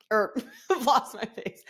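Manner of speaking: amused, words broken by a laugh; laughing at slip. Real, not acted. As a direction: laugh through the words at your own slip. Slip, laughing while repeating it.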